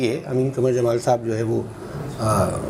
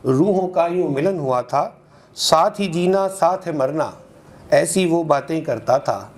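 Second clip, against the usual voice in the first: lilting metre with lifted line ends; ghazal recitation; 3 semitones higher than usual. Acted. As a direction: recite in even rhythmic half-lines, repeating for the audience. (मुशायरे में ग़ज़ल का लयदार पाठ)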